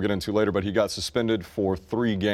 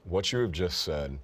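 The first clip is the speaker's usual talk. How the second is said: deadpan scolding; 6 semitones lower, 8 dB quieter than usual. Real, not acted. Deadpan scolding of co-host's remark.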